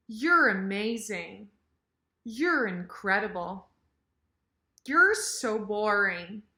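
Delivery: "You're" squeezed to yer in measured model sentences; casual reduced "You're". Shown as a demonstration. Teacher rehearses sentences with casual yer, reduced "You're". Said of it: "with this casual, fast yer".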